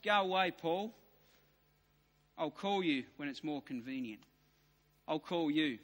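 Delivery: low, soft brush-off; quiet dismissal. Retold or imitated. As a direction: mutter him away, Paul. Felix voiced dismissively.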